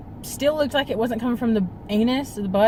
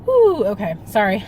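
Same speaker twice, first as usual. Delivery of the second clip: a shaky exhale, steadying herself on the edge of tears; fighting back tears; 4 dB louder than usual. Real, not acted. Vlogger to viewers about her old dog, near tears. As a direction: pull yourself together through real tears. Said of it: "I don't wanna get emotional".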